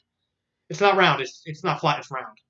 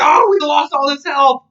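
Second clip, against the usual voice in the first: loud, higher, slowed mock wail over lost health; mock dismay; 9 semitones higher, 7 dB louder, slower than usual. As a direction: ham up the outrage at losing health. Retelling game characters' reactions.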